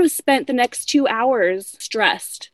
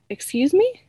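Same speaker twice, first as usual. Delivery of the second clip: high, rising mock affront; affronted disbelief; 7 semitones higher than usual. Client hearing the hairdresser won't do her hair, retold affronted disbelief. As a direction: imitate an offended customer questioning it. Client's reaction to being refused.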